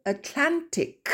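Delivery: Atlantic with the stress on LAN; slow teacher demo, hit LAN in Atlantic. Shown as a demonstration. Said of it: "l'accent tonique se trouve sur la syllabe d'avant". (accent tonique sur LAN dans Atlantic)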